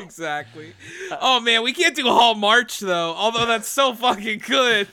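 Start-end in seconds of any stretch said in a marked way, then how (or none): 1.2-4.9 excited. Real, not acted. Excited at the idea.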